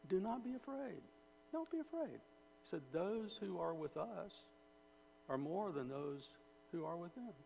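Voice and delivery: high, soft reassurance as Elisha; calm the boy gently; gentle and calm. Retold or imitated. Elisha reassuring his frightened servant, gentle and calm. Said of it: "He very gently, uh, very gently, he, and calmly".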